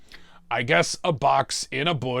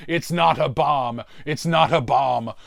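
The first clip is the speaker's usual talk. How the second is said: retold frantic cry, lightly raised; mild mock yell at a police officer; mock shouting; 2 semitones higher, 4 dB louder than usual. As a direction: call out as if running at a cop.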